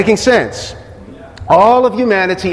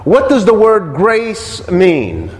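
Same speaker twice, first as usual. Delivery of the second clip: slow question; slower than usual. Shown as a demonstration. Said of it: "Think about that for a minute".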